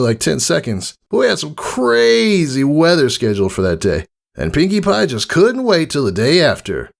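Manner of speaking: high, brash and friendly; cocky praise from a hero; bold tomboy mare voice. Acted. Rainbow Dash praising Scootaloo after the fight, brash and friendly.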